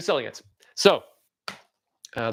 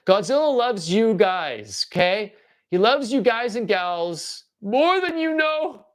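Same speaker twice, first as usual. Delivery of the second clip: slow reassuring; much slower than usual. Pretend.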